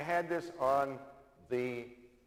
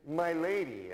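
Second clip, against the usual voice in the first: gallant address; 5 semitones higher, 4 dB louder than usual. Retold or imitated. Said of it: "he just goes up to her and says".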